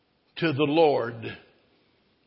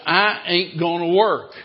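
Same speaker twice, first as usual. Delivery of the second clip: stubborn refusal; 2 semitones higher, 6 dB louder than usual. Acted. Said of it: "he said".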